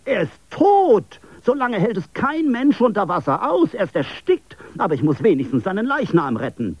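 anguished high wail, fading toward the end; despairing cry. A narrator's reading. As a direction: cry out that his friend is dead. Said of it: "schrie er auf".

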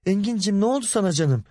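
high, quick, anxious endearment; loving concern. A narrator's reading. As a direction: fuss lovingly over an injured partner. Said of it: "Aysel ona sevgiyle sarılıp".

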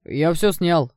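excited shout. Acted. Curly guy filming shouts his delight, loud and thrilled. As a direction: yell it like you got the shot of the year. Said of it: "выкрикнул кудрявый парень".

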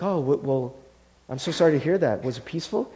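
softly retold sympathy; gentle condolence. Pastor to a grieving daughter, gently sympathetic. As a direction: offer mild, quiet condolences.

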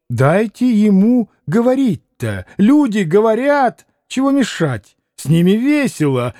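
mild defiant retort; snapping back. Acted. Grushenka snapping at the Polish gentleman, a hint of irritation. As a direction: bite back at the Pole, lightly. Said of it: "огрызнулась Грушенька".

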